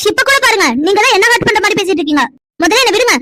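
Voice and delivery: hurt anger. Acted. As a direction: let me go, you're hurting me, indignant. She pulls away in anger.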